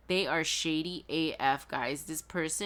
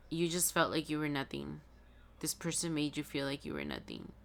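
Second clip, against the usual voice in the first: down; 4 dB quieter than usual. Real, not acted. Reader feeling the listener's old hurt, down and subdued. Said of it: "in the energy of when you were down".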